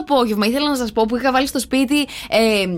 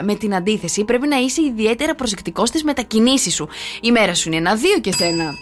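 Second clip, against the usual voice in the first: steady, formal radio reading; measured presenter read, each score as a sign-off; horoscope read. Real, not acted. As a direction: read out each sign's forecast like a bulletin. Reads the daily horoscopes.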